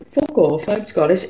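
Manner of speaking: put-on extremely Northern Irish accent. Co-host repeating partner's comeback, extremely Northern Irish accent. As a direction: retort in imitated Northern Irish. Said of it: "I say that in an extremely Northern Irish accent".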